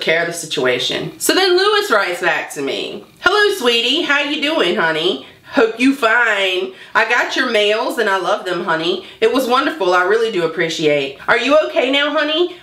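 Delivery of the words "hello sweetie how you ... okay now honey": lightly mocked sweet-talk, lilting up and down; sweet-talking scammer. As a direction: imitate a syrupy online suitor, pitch lifting on greetings. Acting out scammer's sweet-talking message.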